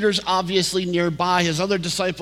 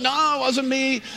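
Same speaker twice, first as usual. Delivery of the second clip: quick denial; 8 semitones higher than usual. Retold or imitated. Crowd all denying it.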